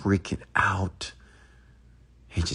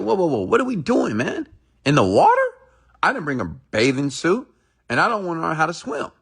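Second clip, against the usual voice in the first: alarmed protest; 10 semitones higher than usual. Retold or imitated. Young man balks at the water.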